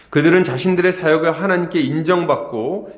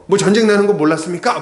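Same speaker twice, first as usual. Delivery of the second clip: quick, louder scolding comeback; mock retort; 5 semitones higher, 5 dB louder, faster than usual. Gideon imagined scolding Ephraim, mock indignant retort. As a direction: snap back at them, half-playful. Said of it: "뭐 이렇게 얘기하면서".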